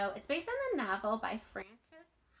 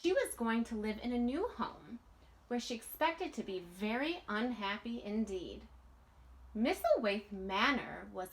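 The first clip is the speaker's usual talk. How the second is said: put-on lively read-aloud voice for children; storybook reading. A narrator's reading. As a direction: read it like a bedtime picture book. Reading picture book aloud.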